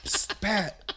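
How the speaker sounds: mock whisper. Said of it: "Just be like".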